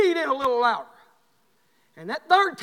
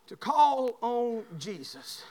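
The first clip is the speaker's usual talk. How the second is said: slow emphatic repeat; 2 semitones lower, 4 dB quieter, much slower than usual. Shown as a demonstration. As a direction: lean into it, slowly. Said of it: "I want to show you this".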